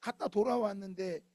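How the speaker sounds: 하소연하는 기도. Retold or imitated. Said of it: "이렇게 말할 수 있어요".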